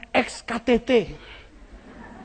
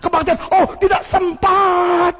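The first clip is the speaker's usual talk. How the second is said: lazy excuse; 8 semitones higher, 3 dB louder than usual. Pretend. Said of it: "Kita mulai bilang".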